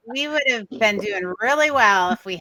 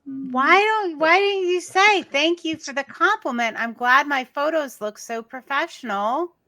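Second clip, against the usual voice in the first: high-pitched, mock-sweet snark; snarky comeback posing as a gracious thank-you; 6 semitones higher than usual. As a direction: lilt it high with pointed sarcasm. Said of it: "a little snarky the way you said it".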